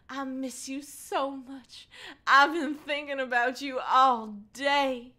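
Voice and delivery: put-on high-pitched girlish sincerity; genuine, heartfelt. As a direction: gush it earnestly in a high voice. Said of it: "she said genuinely".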